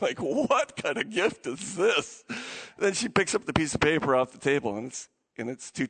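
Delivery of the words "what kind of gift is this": slow, mock-indignant question; mock indignation. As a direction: let the real disappointment out, slowly. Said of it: "her real feelings are coming out".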